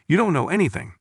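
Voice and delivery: a mildly irritated ghost snapping back; mildly angry. A narrator's reading. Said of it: "The spirit became angry".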